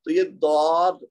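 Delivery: ضاد with the tongue side against the upper molars; ض articulated. Shown as a demonstration. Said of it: "آپ نے کوشش کرنی ہے اس کی پریکٹس". (زبان کی کروٹ سے ضاد کی ادائیگی)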